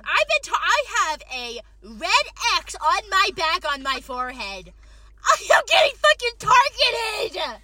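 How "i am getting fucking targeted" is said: high, loud, slow complaint; targeted, loud and drawn out; exasperated outcry. Real, not acted. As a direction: wail it out in mock outrage. Complaining about boss.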